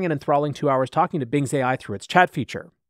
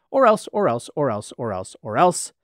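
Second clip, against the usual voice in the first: mock threat. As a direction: spit out the warning. Chatbot threat in menacing chant.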